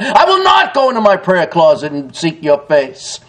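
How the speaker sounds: forceful stress on each opening I WILL NOT; emphatic refusal. Acted. God's people refusing Him, I WILL NOT said with emphasis. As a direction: punch I WILL NOT, then run down through the rest. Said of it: "with emphasis, that is forcibly".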